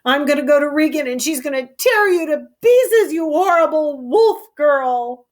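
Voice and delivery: mock-angry modern paraphrase; paraphrasing Lear. Narrator retelling Lear's threat to Goneril, mock-angry. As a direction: lightly act the threat. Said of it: "he's saying".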